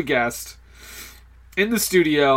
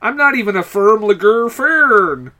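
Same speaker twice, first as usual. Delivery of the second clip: Ermahgerd voice; 4 semitones higher than usual. Pretend. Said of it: "It's the Irma Gerd Burks girl".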